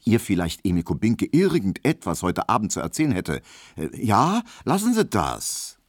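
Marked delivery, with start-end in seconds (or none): 3.8-5.8 higher maid. Acted. Hedwig wehrt verlegen ab.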